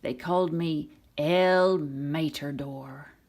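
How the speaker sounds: slow, proud Mater voice; slow proud boast as Mater; proud declaration. Acted. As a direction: announce it like a boastful hero, drawn out. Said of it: "Mater declared proudly".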